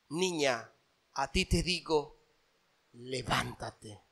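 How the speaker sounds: low, soft and slow on "levántate"; hushed loving command to rise; tender command. Acted. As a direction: call her gently back to life. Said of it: "Jesús le dice".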